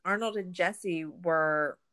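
composed documentary synopsis read; reading a summary. Real, not acted. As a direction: read it out evenly, like prepared notes. Reads prepared documentary summary after chatting.

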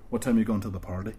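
quick Northern Irish cue line; Northern Irish accent. Shown as a demonstration. Rehearsing the dialogue with co-host, quick Northern Irish accent. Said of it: "So we'll practice this".

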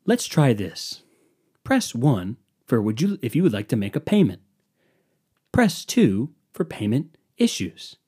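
mock patronizing phone-menu voice; condescending robot. Phone robot guiding a caller through options, condescendingly. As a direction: talk down slowly, as to someone who can't follow. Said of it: "the fucking robot all condescendingly goes".

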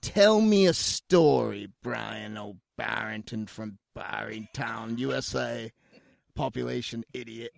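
rasping through a lost voice; hoarse voice. Real, not acted. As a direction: voice worn rough from a cold. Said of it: "mostly lost my voice".

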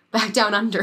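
a hint of a bad Australian accent, barely shifted; terrible Australian accent. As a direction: toss off a weak Aussie twang as a joke. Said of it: "That's my terrible Australian accent".

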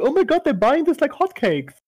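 high mock Japanese accent. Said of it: "Is that your Japanese accent?".

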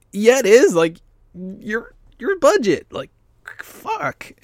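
high-pitched exasperated outburst at the clerk; exasperated high yelp. Retold or imitated. Telling the clerk off in a high, exasperated burst. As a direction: squeal it in disbelief, pitch shooting up. Angry retort to rude clerk.

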